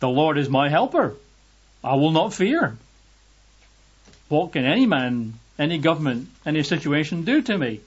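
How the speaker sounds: confident, firmly punched affirmation; bold declaration. Shown as a demonstration. Believer answering God's promise, boldly. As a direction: declare it with conviction. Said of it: "we can boldly say as our response".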